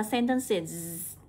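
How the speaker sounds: "sentences" slowly, ending in a long iz; âm đuôi /iz/. Shown as a demonstration. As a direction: hold the buzzing -iz on "sentences". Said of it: "sẽ được phiên âm là âm is". (đọc chậm "sentences", ngân đuôi iz)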